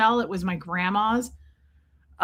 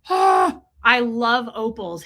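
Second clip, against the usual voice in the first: mock delighted gush; 4 dB louder, slower than usual. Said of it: "which I was like".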